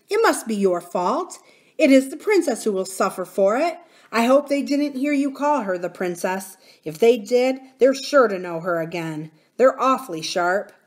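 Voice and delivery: put-on blunt, firm young miner; boy warning with some force; lightly voiced miner boy. Miner boy warning nurse about sharp-eared goblins, blunt.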